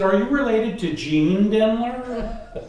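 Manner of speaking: high, loud, drawn-out question; retold astonishment. Man recognizing a surname on the bus, astonished question. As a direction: ask in amazed recognition, stretching the name.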